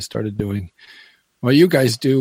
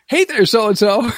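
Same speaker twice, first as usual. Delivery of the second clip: slow, pitched-up mock DJ greeting; mimicking radio voice; 8 semitones higher, 3 dB louder than usual. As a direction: copy his cheery tone right back at him. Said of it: "And I'd say".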